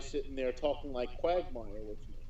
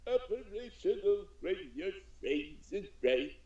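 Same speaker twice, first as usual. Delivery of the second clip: Emperor voice; slower than usual. Retold or imitated. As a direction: murmur it like a sinister old emperor. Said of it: "I start doing the Emperor's voice for her".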